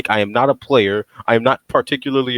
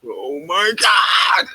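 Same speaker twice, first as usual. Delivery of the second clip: slow, high laughing cry; laughing shout; 5 semitones higher, much slower than usual. Real, not acted. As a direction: howl it through laughter. Laughing exclaim.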